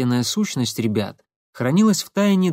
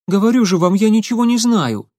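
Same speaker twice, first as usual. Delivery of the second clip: high, loud, desperate protest; loud insistence; 10 semitones higher, 6 dB louder than usual. Acted. Semyon to the detectives, high desperate insistence. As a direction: insist he knows nothing, near shouting.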